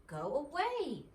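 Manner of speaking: loud, high angry bark at the door; angry shout. A narrator's reading. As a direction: yell him off the doorstep. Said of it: "shouted Mister Squirrel".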